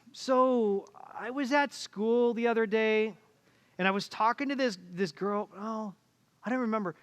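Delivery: put-on wander through it like a kid with no point; rambling daughter. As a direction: daughter rambling to her impatient father. Daughter rambling her story.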